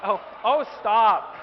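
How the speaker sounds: a sudden loud, sharp "stop" to the crowd. Real, not acted. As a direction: cut the noise off with a loud call. Audience reacts, he cuts it off.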